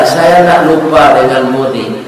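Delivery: low, gently voiced grateful letter; understated, tender reveal; heartfelt letter. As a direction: read aloud with quiet sincerity. Doctor's grateful letter read out.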